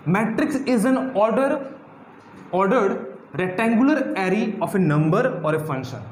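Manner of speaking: slow dictation. Shown as a demonstration. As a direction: spell out the definition very slowly, word by word. Dictating the definition to students.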